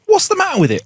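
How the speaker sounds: silly high voice. Acted. Sal asks mechanic, high voice.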